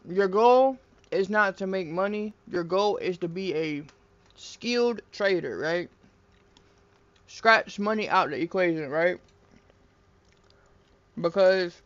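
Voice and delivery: talking while crunching chips. Real, not acted. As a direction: speak through crunchy mouthfuls. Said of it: "I'm sorry for all the crunching".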